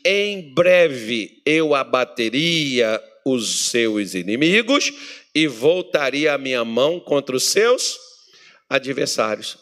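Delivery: slow, weighty promise as God; God's voice. Acted. God promises to strike Israel's enemies, solemn. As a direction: declare it like a solemn oath.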